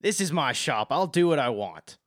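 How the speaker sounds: firm, loud shopkeeper retort; annoyed shopkeeper. Acted. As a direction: stand your ground as the shop's boss. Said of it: "she looks down at you and she says".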